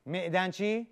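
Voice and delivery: معدنچی with "me" for "ma"; local mispronunciation. Acted. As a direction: say معدنچی as "me'danchi". (معدنچی را با کسره، «مِعدنچی» بگو)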